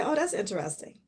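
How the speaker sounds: soft, unbothered oh that's interesting; calm interested reply. Shown as a demonstration. Showing the calm reply instead of irritation, softly. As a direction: brush it off softly, curious not irritated. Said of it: "Instead of saying, "Oh, I'm irritated," say".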